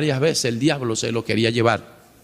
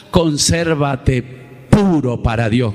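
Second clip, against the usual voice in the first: solemn command; 3 dB louder, slower than usual. Acted. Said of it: "ahí es donde Dios dice".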